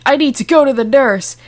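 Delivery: scream. A narrator's reading. Madoka screams to the teacher for the nurse, yelling. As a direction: blurt it out as a shout for the nurse. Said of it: "and screamed".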